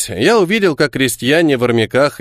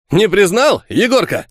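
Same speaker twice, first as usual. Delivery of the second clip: cheerful; 7 semitones higher than usual. Acted. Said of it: "спросил весело".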